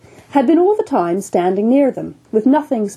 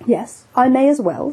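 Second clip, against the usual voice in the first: coolly; 4 semitones higher than usual. Acted. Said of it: "said the surgeon coolly".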